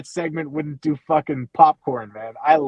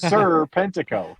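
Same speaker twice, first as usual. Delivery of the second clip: "Sir" stretched apart from "Pentico"; title split off. Shown as a demonstration. Pitching a wrestling bit to co-host, title split off. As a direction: lean on "Sir" as if it were a title. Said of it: "react to him like his name is".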